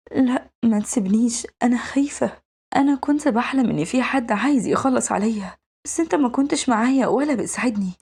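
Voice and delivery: voiced, mildly anxious girlish plea; feigned fear. Girl telling her guardian about a made-up nightmare, mildly fearful pleading. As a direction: act a little scared, pleading with him to stay. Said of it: "فبتمثل إنها بتكوبس".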